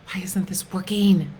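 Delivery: whispered frustration at the computer; frustrated whisper. Retold or imitated. To herself, stuck logging on, a frustrated whisper. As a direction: hiss out the complaint under your breath. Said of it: "I was getting so frustrated".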